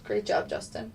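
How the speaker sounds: talking through a burp; burpy, airy low voice; burping after fizzy drink. Real, not acted. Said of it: "burping again".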